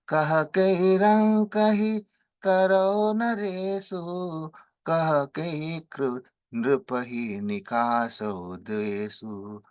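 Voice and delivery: king's plea in chanted verse; dramatic verse recitation. Acted. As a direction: recite the king's pleading lines, rising to a cry.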